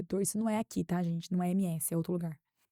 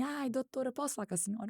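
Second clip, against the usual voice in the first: timid plea; 5 semitones higher, 6 dB quieter than usual. Retold or imitated. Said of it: "ele falou assim".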